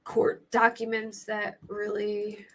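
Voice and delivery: scratchy, papery voice. Real, not acted. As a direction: let the voice scrape dry and thin. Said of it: "why my voice is so scratchy today".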